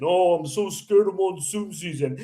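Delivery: lightly mocking scared heckler; a hint of put-on fear. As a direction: imitate a coward to make fun of him.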